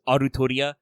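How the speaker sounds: "Arutoria" in separate Japanese syllables; Japanese pronunciation. Shown as a demonstration. Host contrasting Japanese and English readings, "Arutoria" said the Japanese way. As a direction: say "Arutoria" with a light Japanese R and an added u. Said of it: "the way they pronounce it in Japanese".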